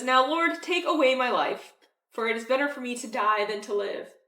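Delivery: loud, overwrought plea to die; dramatic Jonah. Retold or imitated. Jonah throwing a fit at God, loud and dramatic. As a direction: ham up a sulking prophet begging God. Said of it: "Jonah's very dramatic".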